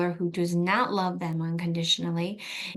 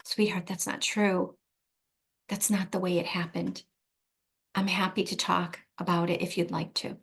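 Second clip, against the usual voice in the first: gentle reassurance. Shown as a demonstration. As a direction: soothe the child calmly without arguing. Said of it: "just go directly to".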